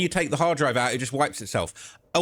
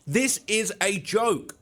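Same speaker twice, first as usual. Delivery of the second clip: fed-up disgust; 5 semitones higher, much slower than usual. Real, not acted. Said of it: "I'm tired of this surveillance footage bullshit".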